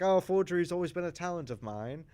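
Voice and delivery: high-pitched mock British accent. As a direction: put on a British lady's voice. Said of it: "I gave her a British accent".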